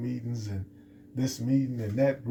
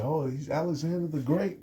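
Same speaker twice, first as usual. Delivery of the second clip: higher-pitched mocking brag, rising to the end; mock bragging; 4 semitones higher than usual. Preacher mimicking people who love to brag on Alexander, mock bragging. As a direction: imitate admirers gushing over their hero. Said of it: "brag on Alexander".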